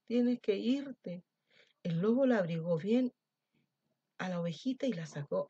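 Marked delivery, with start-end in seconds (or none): 0.1-1.2 slow insistence. Acted. Wolf sends lamb away.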